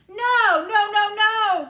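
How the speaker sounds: slow, very loud high protest; Wonka's alarmed cry. A narrator's reading. Wonka trying to stop Mike, very loud. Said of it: "cried Mister Wonka".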